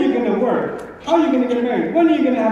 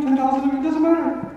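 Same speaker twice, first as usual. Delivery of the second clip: one of the listeners; 5 semitones higher than usual. Retold or imitated. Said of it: "This is one of you".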